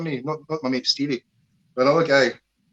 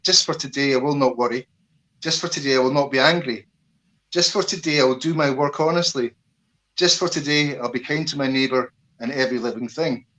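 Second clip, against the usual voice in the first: recited principles. Shown as a demonstration. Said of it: "I'll give you the Reiki principles".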